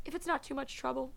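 weak voice. A narrator's reading. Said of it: "the woman said in a weak voice".

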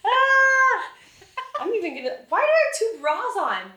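high, laughing retold fluster; flustered mock squeal; laughing mock panic. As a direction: squeal it through giggles. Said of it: "You're like".

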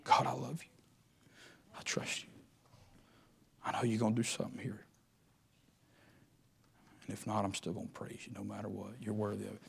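hushed, soft, intimate prayer; whispered prayer. Shown as a demonstration. Preacher showing how to whisper a prayer, hushed. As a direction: murmur it low to God under your breath. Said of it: "why don't you whisper a prayer".

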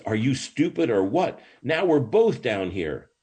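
acted incredulous complaint; exasperated. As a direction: scold a friend in mock disbelief. Acted exasperation at friend in hole.

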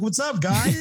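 high-pitched, cheery retold hello; happy greeting. He walks over to greet the guys, all happy. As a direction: imitate a friend delighted to see you. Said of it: "he's all happy".

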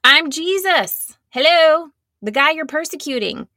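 hammed-up, incredulous self-introduction; exasperated Jesus. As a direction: announce it as if it were obvious. Acts out Jesus's exasperated answer.

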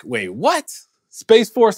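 suddenly thrown, blurting it out; stunned disbelief. Retold or imitated. Shocked at hearing Space Force.

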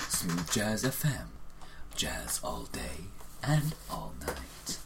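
deep, slow radio announcer; smooth jazz station announcer. Acted. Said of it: "I've got a radio voice".

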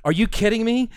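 squealing high with amazement; can't believe the acceleration, voice shooting up; stunned disbelief. Retold or imitated. Stunned by the car's acceleration, squealing high disbelief. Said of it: "I said, You've got to be kidding me".

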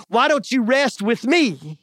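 slow, easy invitation to rest; slow it down, untroubled by the panic; calm Jesus. Acted. Jesus answering his frightened disciples, calm and slow. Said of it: "See the difference?".

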